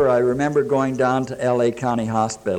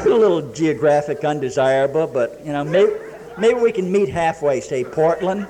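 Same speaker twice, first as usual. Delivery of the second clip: teasing, pitched higher, a wink in the voice; playful flirting; 4 semitones higher than usual. Real, not acted. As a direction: toss it off like a cheeky pickup line to the room. Joking flirt aimed at the ladies.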